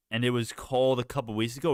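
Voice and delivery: normal talking voice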